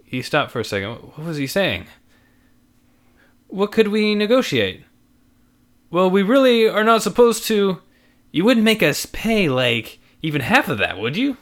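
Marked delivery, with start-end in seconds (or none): 3.5-11.4 wheedling customer voice. Acted. Couple haggling.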